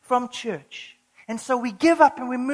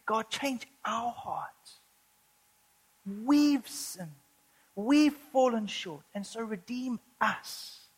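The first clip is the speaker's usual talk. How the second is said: slow humble prayer; 4 dB quieter, slower than usual. Retold or imitated. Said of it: "He's saying".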